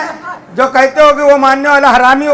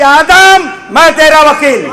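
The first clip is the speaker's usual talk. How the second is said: voice from the throne. Acted. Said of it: "عرش سے آواز آئی مولا کائنات کی".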